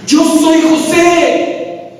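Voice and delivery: slow, high, broken with tears; José weeping as he reveals himself; tearful. Acted. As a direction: say it slowly as though about to weep.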